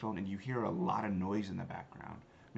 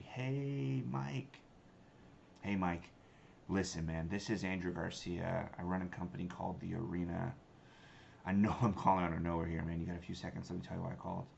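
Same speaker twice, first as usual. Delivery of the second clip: warm, familiar. Shown as a demonstration. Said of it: "Act as if I know Mike already".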